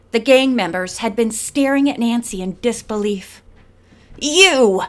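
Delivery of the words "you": louder stunned cry; sputtered. A narrator's reading. Thorne sputtering at Nancy in shock. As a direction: spit it out in disbelief. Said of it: "Thorne sputtered".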